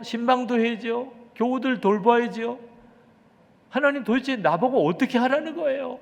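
loud, high-pitched outburst of complaint to God; 원망의 기도. Retold or imitated. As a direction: cry out in protest, acting out an exasperated pastor's prayer. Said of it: "하나님 앞에 소리소리 지르면서". (소리치며 따지는 원망의 기도 재연)

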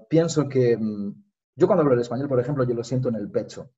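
relaxed native Spanish, a little quick; speaking Spanish. Shown as a demonstration. Explaining to his friend, in Spanish, a little quick. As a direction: speak it from the chest. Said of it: "Vas-y, continue".

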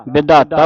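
ਵਿਧਾਤਾ with a clear dhadda in the middle; dh sound. Shown as a demonstration. Teacher showing student the letter, ਵਿਧਾਤਾ with dh sounded. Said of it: "ਧੱਦੇ ਦੀ ਆਵਾਜ਼ ਉਚਾਰਨ ਕਰਨੀ".

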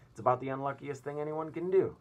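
loud high ranting; shouting on. Acted. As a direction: keep shouting it. Centipede keeps shouting.

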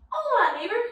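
high, loud, lightly acted hello; playful neighbor greeting. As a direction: call out to the dog next door. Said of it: "you're gonna say".

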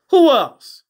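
loud, high, fed-up demand; exasperated shout. Real, not acted. Vlogger yelling at the fight footage. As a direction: hurl the question at the screen.

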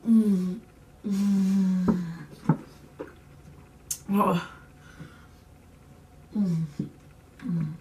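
groaning through hot food; mouth full of hot food. Real, not acted. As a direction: mouth full of burning pepper. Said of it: "my mouth is on fire".

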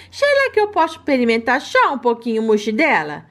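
lightly voiced pleading pet; baby-voiced pet. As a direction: wheedle like a sly puppy. Pet asks for mousse.

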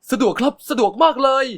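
high, loud, overjoyed yes; eager delight. A narrator's reading. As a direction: jump at the invitation. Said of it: "ลืมเก็บอาการดีใจ".

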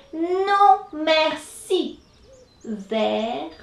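lightly voiced rabbit declining; polite refusal. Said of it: "so he says".

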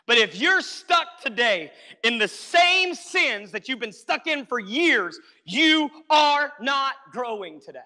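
slow, rising preacher push; preaching slowly. Acted. Preacher confronting a stuck congregation, slow and pressing. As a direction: lean in slowly and drive it home.

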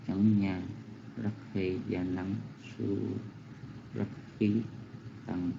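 steady, unhurried chant of the Pali words; Pali verse recitation. Acted. Monk reciting the verse a second time for the hall, measured chant. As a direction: read the verse as a devout chant, syllable by syllable.

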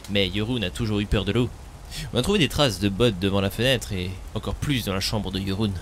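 put-on loud, bitter old villager cursing Eric; angry villager. Streamer voicing a grieving villager, loud and bitter. Reads villager's lines aloud.

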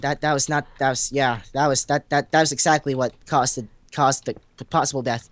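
repeating words, tripping over starts; stuttering. Real, not acted. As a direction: stammer through it. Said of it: "I'm stuttering".

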